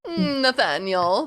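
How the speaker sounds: slow, snooty society matron; Jessica Walter voice. Shown as a demonstration. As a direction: purr the name with haughty disdain. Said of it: "like Jessica Walter".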